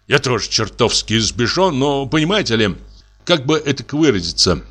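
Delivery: halting, stumbling over the words; stammering and unsure, searching for words; hesitant. Acted. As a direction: fumble for how to say it. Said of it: "нерешительно подходя к Поповой".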